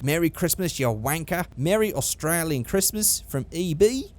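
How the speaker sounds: put-on Australian sticker read; Australian accent. Vlogger reading rude Christmas stickers aloud, Australian accent. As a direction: read the greetings in mock Australian. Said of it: "That's my Australian accent".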